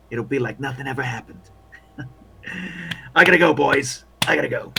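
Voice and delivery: lightly voiced matey old hand; overly cheery soldier. Soldier advising the walking wounded on the nurse, chummy. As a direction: play him chummy, talking up his new pals. Game master plays a soldier.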